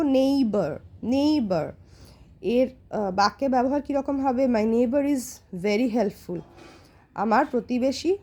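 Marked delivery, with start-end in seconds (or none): 0.0-1.7 "নেইবার" in two drawn-out syllables, repeated; pronunciation demo. Shown as a demonstration. Teacher modelling "নেইবার" for pupils, careful and drawn out. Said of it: "নেইবার উচ্চারণ কীরকম করবো".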